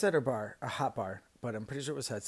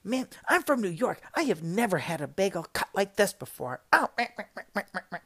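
much higher, louder indignant rant; fuming customer; 7 semitones higher, 6 dB louder than usual. Retold or imitated. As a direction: rant like a fuming New Yorker over a bagel. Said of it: "she's just like".

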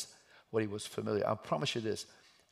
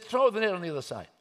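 loud, high shouted instruction; calling out; 8 semitones higher, 8 dB louder, faster than usual. Acted. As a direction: call directions out to a distant boat. Man on shore calls to boat.

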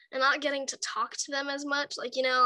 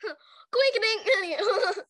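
playful drawn-out; 7 semitones higher, 3 dB louder, much slower than usual. Real, not acted. Joking about coincidence.

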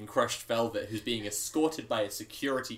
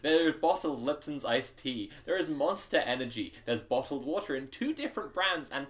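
deadpan list. Acted. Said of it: "I wasn't gonna do this, but Joe wanted this".

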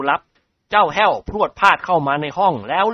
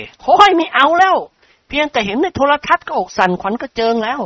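high, loud wincing cry of no; scared refusal; 11 semitones higher, 5 dB louder than usual. A narrator's reading. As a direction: pull a face and whine in fright. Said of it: "ทำหน้าเหยเก". (นิกรร้องโอ้ยอย่างหวาดกลัว)

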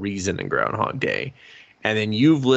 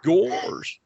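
high, cartoonish put-on voice; silly high cartoon exclamation; Goofy; 10 semitones higher than usual. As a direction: do a poor cartoon-dog impression, pitched way up. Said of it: "I'm doing goofy impressions poorly".

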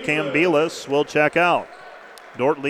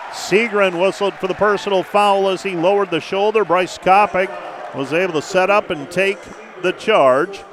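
excited call; 4 semitones higher than usual. Real, not acted. Foul call, raised voice.

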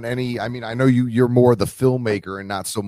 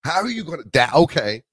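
talking through higher-pitched laughter; laughing; 6 semitones higher than usual. Real, not acted. Interviewer hearing the filmmaker lost his location, laughing. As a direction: try to say sorry while laughing. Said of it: "I'm sorry I'm laughing at you".

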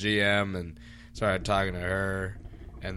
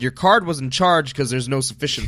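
retold loud customer-service retort; emphatic explanation; 2 semitones higher, 7 dB louder than usual. Server telling customer her card declined, loud and emphatic. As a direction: lay it out loudly for a difficult customer.

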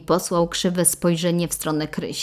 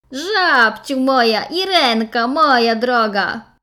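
soothing; 7 semitones higher, 7 dB louder, slower than usual. Acted. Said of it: "próbował załagodzić sytuację".

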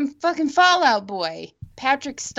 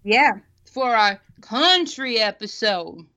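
slow words through a mouthful; mouth full; 2 semitones lower, slower than usual. Real, not acted. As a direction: still chewing while talking. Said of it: "I'm eating barbecue goldfish".

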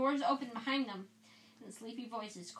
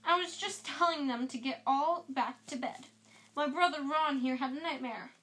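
indignant protest; 3 semitones higher, 5 dB louder than usual. Acted. Percy defending himself.

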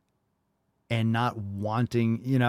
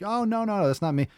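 mock denial; 11 semitones higher, faster than usual. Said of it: "call back in and be like".

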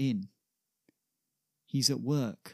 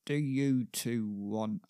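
slow, lightly voiced gruff workman; gruff man; slower than usual. Big gruff man greets two visitors at the shipyard, gruffly. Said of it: "big gruff man greets them".

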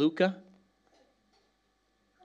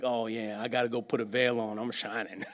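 mock bashful; 7 semitones lower, 7 dB quieter than usual. Mocking someone hiding their glow.

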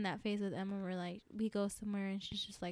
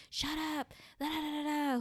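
higher-pitched mock telling-off; mock scolding; 6 semitones higher than usual. Imitating moms who cuss at kids, mock scolding. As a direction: imitate an impatient mom, lightly.

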